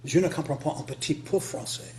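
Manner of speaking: careful learner's French accent, words sounded out; halting French attempt. Shown as a demonstration. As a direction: try your best schoolbook French. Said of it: "that's the best I can do".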